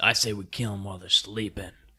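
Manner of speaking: speaking in a low voice. Narrator voices a stranger the group overhears at the campfire, low voice. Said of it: "you guys hear some low voices".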